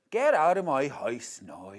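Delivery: put-on stronger Belfast accent take; second Belfast try. A second Belfast attempt for viewers. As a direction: push the Belfast vowels harder. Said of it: "That wasn't Belfast".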